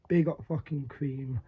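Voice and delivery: breathy whisper, no voice at all; whispered shout-outs. Real, not acted. Whispering shout-outs to Spray and Cream.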